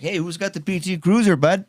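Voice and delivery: high, upbeat mock mechanic's call; a small-town mechanic calls out brightly to the customers; cheery mechanic. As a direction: greet them like a happy local mechanic. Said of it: "he's got a good attitude".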